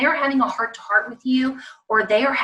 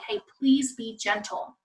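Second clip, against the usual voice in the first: gentle request; 6 dB quieter than usual. Shown as a demonstration. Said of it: "You need to say".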